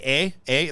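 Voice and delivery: "A" as a drawn-out Canadian eh. Shown as a demonstration. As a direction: say "A" like a Canadian filler sound. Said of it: "Canadians usually say".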